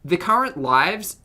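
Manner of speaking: usual speaking voice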